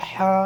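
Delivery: হা breathed from the middle of the throat; demonstrating a throat হা. Shown as a demonstration. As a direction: push হা out from mid-throat. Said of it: "হাটা গলার মধ্যখান থেকে".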